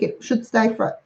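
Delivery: interrupted by a hiccup; talking through hiccups. Real, not acted. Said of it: "I've got the hiccups now".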